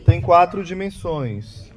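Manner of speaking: slow, spaced-out words for the audience to repeat; dictating for repetition. Shown as a demonstration. Preacher dictating the four dimensions for listeners to say along, slowly. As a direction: lay out each item deliberately so they can echo it. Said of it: "Diga comigo".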